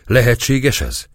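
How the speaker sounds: high, imploring exclamation; astonished cry. A narrator's reading. Kneeling captive questioning the priest's mercy, astonished cry. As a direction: cry it out in disbelief. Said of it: "kiáltott a török térdre borulva".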